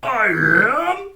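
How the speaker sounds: high teary voice; sniffling. A narrator's reading. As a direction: say it through a sniff. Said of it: "sniffed the buffalo".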